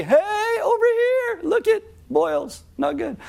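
high-pitched cry from far off; a mock shout across the road; high calling out. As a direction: call out to him from a distance. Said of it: "they'd be".

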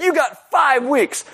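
high, slow imitated mother; stern mom verdict. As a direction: spell out the sentence slowly. Mom's verdict.

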